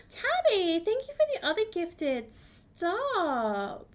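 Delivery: high, loud gushing over a gift; thrilled squealing thanks. Real, not acted. Streamer gushing to Tabby over a gift, squealing. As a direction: squeal with real delight.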